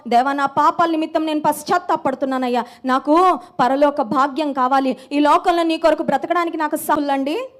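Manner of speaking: preacher voicing an earnest prayer; acted pleading prayer. Child repenting before God, pleading prayer voiced by the preacher. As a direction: plead with God, pressing each request.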